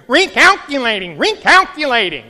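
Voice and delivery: high, loud prim British lady reading out the route; a lightly put-on British woman's voice announcing a recalculation; shrill British GPS lady. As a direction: mimic the sat-nav woman in a British accent. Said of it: "high woman's voice with a British accent".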